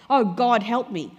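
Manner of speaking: loud, exasperated plea to God; desperate cry for help. Retold or imitated. Frustrated carer crying out to God for help. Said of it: "you've just had an argument with your mother".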